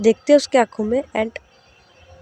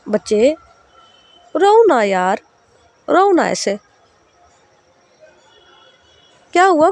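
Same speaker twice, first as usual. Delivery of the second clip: put-on caring older sister; 5 semitones higher than usual. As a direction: gently press a crying girl to talk. Sahar comforts crying Raavi.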